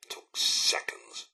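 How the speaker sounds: grave whisper. Acted. Robot butler hushing over a bomb crater, slow whisper. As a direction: drop to a slow hushed whisper.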